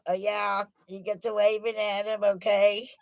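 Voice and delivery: ordinary delivery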